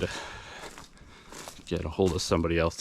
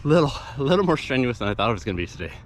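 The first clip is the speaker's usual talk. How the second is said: winded after climbing a hill; out of breath, panting between words; 4 semitones higher than usual. Real, not acted. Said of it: "sorry, let me catch my breath".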